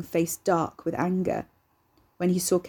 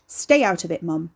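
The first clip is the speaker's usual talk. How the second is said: loud angry yell; 5 dB louder than usual. Acted. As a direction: shout back at her. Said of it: "Ricky yelled".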